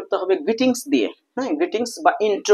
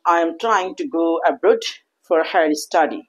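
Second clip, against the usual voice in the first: formal self-introduction; much slower than usual. Shown as a demonstration. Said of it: "আবার বলতে পারেন".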